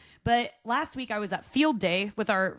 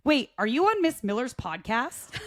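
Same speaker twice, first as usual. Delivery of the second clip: imitating a kid; 3 semitones higher than usual. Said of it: "she goes".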